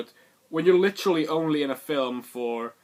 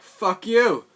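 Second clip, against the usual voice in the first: higher, louder snap of a curse; mock shout; 9 semitones higher, 9 dB louder than usual. Kylo Ren cursing at the escaping heroes, loud shout. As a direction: spit the curse out. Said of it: "And Kylo Ren is like".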